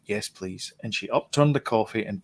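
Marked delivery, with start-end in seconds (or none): 0.1-0.7 soft, small "Yes, please."; meek reply. Retold or imitated. Replying to the Denny's waitress, meek and soft. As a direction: murmur it politely, a little lower. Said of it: "And I went".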